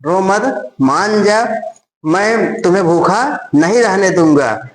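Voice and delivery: slow soothing coax; husband soothing his hungry wife, slow and gentle. Retold or imitated. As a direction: slowly coax a crying wife. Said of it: "उनके पति बोला कि".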